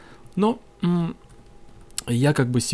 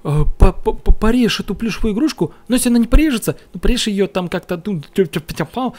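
mocking commenter; 5 semitones higher, 4 dB louder than usual. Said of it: "написали такой конченый комментарий".

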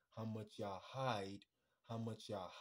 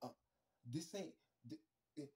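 mock innocent woman. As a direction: play it shy and innocent. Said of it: "look at a man face and be like".

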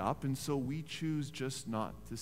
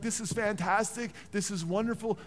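mock enthusiasm; 6 semitones higher than usual. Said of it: "No, he got sarcastic".

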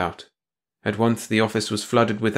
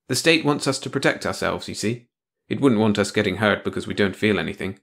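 lightly voiced bitter man; dry, cynical explaining; Tony, bitter; 3 semitones higher than usual. Tony explains negamoting to her.

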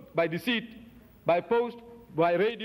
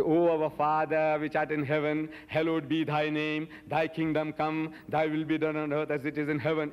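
solemn prayer reading; 2 semitones lower than usual. Shown as a demonstration.

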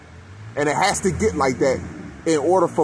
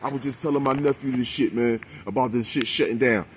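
lightly voiced older neighborhood guy, a bit softer; a hint of the old head telling you straight; imitating the old head; 4 semitones lower, 4 dB quieter than usual. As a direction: do the old head from the block, softer and low-key. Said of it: "This is exactly how he sounded".

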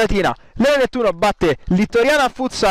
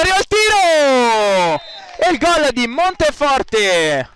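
excited goal call; 2 semitones higher than usual. Real, not acted. Penalty goal called out.

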